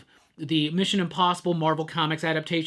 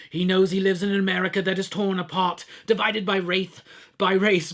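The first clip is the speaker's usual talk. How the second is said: a hint of a sneering British baddie reading a threat; British villain voice. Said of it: "I'm gonna do my just British villain voice".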